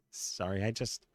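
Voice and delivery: apologizing through a giggle; can't hold back the laugh; giggly, sorry-not-sorry. Real, not acted. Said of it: "Are you laughing?".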